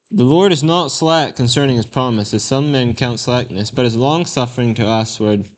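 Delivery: measured, solemn Bible reading; scripture reading. Acted. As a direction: read the verses like from the pulpit. Reads scripture aloud.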